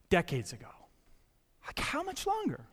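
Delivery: breathy hushed whisper. Real, not acted. Pastor stressing how long, in a whisper. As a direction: let it fall to a whisper.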